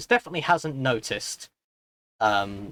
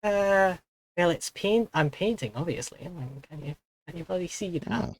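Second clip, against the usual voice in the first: a higher Welsh-ish character voice; Welsh accent; 6 semitones higher than usual. Acted. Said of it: "This is supposed to be a Welsh accent".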